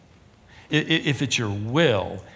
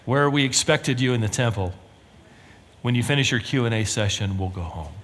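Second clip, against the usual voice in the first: perfect composure; 2 semitones lower than usual. Acted. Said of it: "with perfect composure say".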